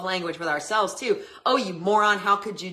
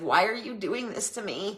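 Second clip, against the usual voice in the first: put-upon, passive-aggressive, wronged-party tone; 4 dB quieter than usual. Showing the wrong way to speak up: passive aggressive victim tone. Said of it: "passive aggressive ... victim type stance".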